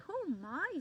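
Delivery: high amused squirrel; squirrel giggling. A narrator's reading. Squirrel amused by the shouting leaf, high and giggly. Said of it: "said the squirrel with a giggle".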